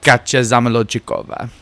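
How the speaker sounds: lightly put-on Russian accent. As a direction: roll out the name in mock Russian. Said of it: "in a Russian accent".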